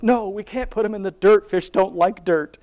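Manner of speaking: a lightly voiced insistent little girl; upset little girl. Voicing her daughter refusing to bury the fish, high and pleading.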